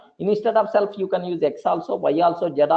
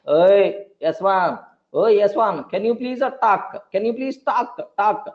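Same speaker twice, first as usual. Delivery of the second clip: calling an object; 3 semitones higher than usual. Retold or imitated. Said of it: "Like this".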